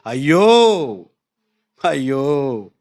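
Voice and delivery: very slow, low, wailing అయ్యో, అయ్యో; Paul crying out అయ్యో in anguish; crying ayyo. Acted. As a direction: wail like a man in agony. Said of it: "ఏడుస్తూ మాట్లాడుతున్నాడు".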